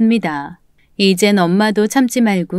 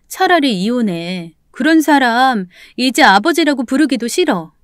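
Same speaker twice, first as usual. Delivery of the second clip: daughter pleading in reproach; exasperated daughter's appeal; confronting mother; 2 semitones higher than usual. Acted. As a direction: confront your mother, urging her to act. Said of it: "전 엄마를 보자마자 막 대들었어요".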